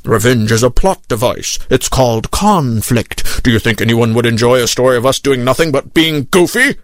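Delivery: put-on low, mildly cross old captain; understated anger. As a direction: scold the young sailor in a low voice. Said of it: "said angrily in my ear".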